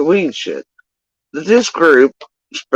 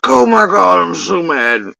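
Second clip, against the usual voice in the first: fake fury; 5 semitones higher than usual. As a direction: put on a show of being mad. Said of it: "pretended to vomit and gag and be furious".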